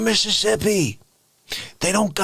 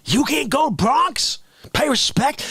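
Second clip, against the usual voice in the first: mock indignation; 5 semitones higher than usual. Mock indignation at refusal to come.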